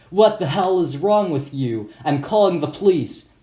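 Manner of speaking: mock angry shopkeeper yelling down; scolding. Shopkeeper scolds kid on the floor, loudly. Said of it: "He towered over me and scolded".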